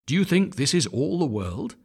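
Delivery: a hint of a fussing mother duck. A narrator's reading. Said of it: "said the mother".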